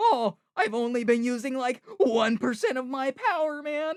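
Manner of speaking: very loud, high-pitched, belted character voice. Speaker explains copying a voice while adding his own spin, Shaggy voice. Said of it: "I'm doing a copy of a voice".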